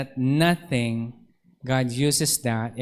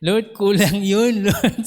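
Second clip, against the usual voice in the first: high, slow whining plea to the Lord; half-laughing complaint, pitched up; pleading complaint; 5 semitones higher, 4 dB louder, slower than usual. Retold or imitated. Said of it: "sabi ko". (nagrereklamong pakiusap)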